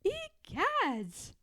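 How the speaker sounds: a hammed-up gasp of shock; mild mock scream. Martha gets drenched by George, mild mock scream. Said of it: "screamed Martha".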